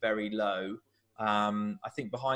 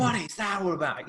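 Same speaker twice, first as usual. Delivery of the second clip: much higher, half-hearted yell of protest; imitating a manager complaining to the referee; mock belting; 8 semitones higher than usual. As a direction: demand it of the ref, much higher. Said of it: "belting at him".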